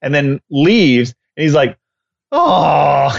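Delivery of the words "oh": a short mock whimper; upset dog. Dog watching his owner leave again, mock whimper. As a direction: whine like a dog left behind. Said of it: "he's so upset".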